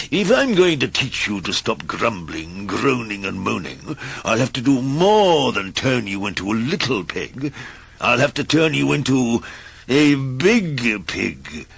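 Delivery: wizard's threat. Acted. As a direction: savour the punchline of the threat. Wizard threatens Mister Grumble.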